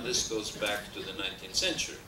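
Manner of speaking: normal talking voice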